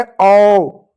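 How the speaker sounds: औ drawn out as a gliding vowel; demonstrating औ. Shown as a demonstration. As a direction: stretch औ slowly for learners. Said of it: "और औ का उच्चारण". (औ को लंबा खींचकर)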